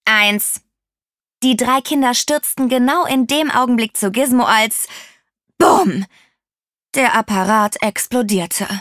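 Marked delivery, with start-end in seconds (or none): 0.0-0.6 lightly voiced computer countdown; scratchy computer voice. A narrator's reading. Loudspeaker box starts the countdown, lightly scratchy computer voice. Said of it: "Eine kratzige Computerstimme erschallte". 5.6-6.0 big booming bang word; loud explosion imitation. A narrator's reading. The countdown ends in an explosion, boomed out loud.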